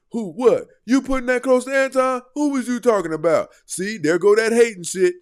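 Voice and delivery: high, loud indignant fan voice; squawking indignant mock voice; mock outraged fan. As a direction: play the offended defender, loud and high.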